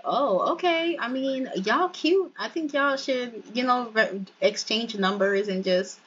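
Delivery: lightly voiced excited friend; hyped matchmaker friend. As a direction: gush like a nosy friend pairing them up. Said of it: "And he's like".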